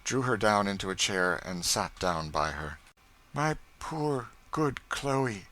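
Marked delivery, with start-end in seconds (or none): 3.3-5.5 softly tender. Acted. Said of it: "followed her softly".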